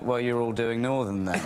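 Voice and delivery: put-on lightly done Northern accent; blunt, in a hint of Northern accent; Northern English accent. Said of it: "he turned to us and went".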